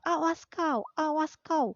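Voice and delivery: threatening cat. Acted. Cat chasing duck threatens.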